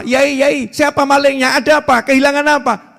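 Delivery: tanya cepat dan tinggi; warga panik. Retold or imitated. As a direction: warga kampung berdatangan cemas. Warga kampung bertanya panik. (warga bertanya dengan cemas)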